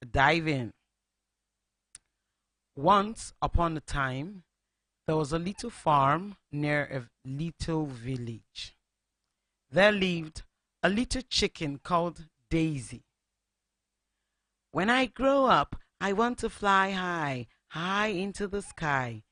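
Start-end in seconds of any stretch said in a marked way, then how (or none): 2.8-13.0 put-on lively read-aloud for children; storybook narration. A narrator's reading. Radio host reads story to children. 14.7-19.2 hopeful little chicken. Acted. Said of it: "Daisy said".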